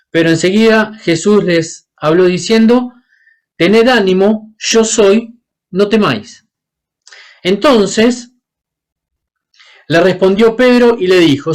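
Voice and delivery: measured Bible reading aloud; scripture reading. Acted. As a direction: read the gospel passage steadily to the congregation. Lectura del evangelio en voz alta. (lectura pausada del evangelio)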